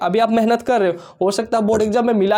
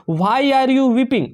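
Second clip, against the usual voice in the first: each word slow and spaced; slow dictation read; 3 semitones higher, much slower than usual. Shown as a demonstration. Teacher to students, reading the example slowly.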